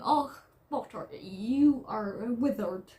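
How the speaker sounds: put-on a light, unsure Scottish accent, slowing on withered. Vlogger quoting David Tennant's Harry Potter cameo, lightly Scottish accent. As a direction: attempt a Scottish accent, admitting you can't quite do it. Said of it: "in the Scottish ang-, uh, a-, accent".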